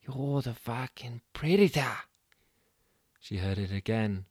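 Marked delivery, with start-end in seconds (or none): 0.0-2.0 light Australian woman's voice, urging; a hint of Jen goading her; Jen's voice. Jen's voice in Mudguard's head.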